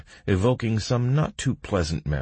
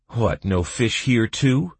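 slow, raised-pitch sympathy; sorrowful sigh; 7 semitones higher, 4 dB louder than usual. A narrator's reading. Narrator asking the bog creature, mildly sorrowful. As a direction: ask slowly, with a touch of sorrow. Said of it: "asked with a sorrowful sigh".

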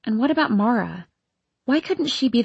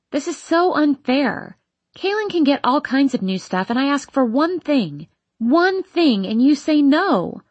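whiny protest; 5 semitones higher than usual. Acted. Teen protesting unfairness.

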